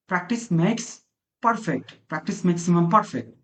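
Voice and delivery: very slow, drawn-out saying; deliberate teacher recital; slow proverb. Shown as a demonstration. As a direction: stretch the proverb out. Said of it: "teacher recites proverb".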